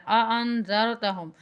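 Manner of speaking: slow اانذرتہم with both opening glottal stops sounded; two clear hamzas. Shown as a demonstration. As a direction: articulate each hamza at the start of اانذرتہم. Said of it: "حمزہ کی آواز آئے گی دونوں میں".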